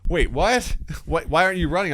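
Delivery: puzzled dog. Retold or imitated.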